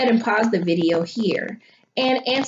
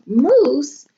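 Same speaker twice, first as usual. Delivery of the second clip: puzzled question; 5 semitones higher, 4 dB louder than usual. Real, not acted. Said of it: "I thought to myself".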